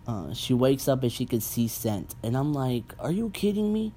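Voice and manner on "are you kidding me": high-pitched, disbelieving outburst; incredulous. Retold or imitated. Viewer reacting to absurd plot twist, high incredulous. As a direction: react as if the plot insulted you.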